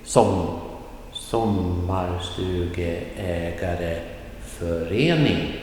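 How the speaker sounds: slow sommarstugeägareförening, falling on Som, level until a rise on förening; falling, then rising tone. Shown as a demonstration. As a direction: draw out sommarstugeägareförening, dropping at Som and lifting near the end. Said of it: "Falling tone in the beginning".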